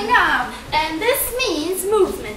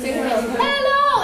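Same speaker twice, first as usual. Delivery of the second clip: sing-song greeting; 5 semitones higher than usual. Shown as a demonstration. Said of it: "how do you say that".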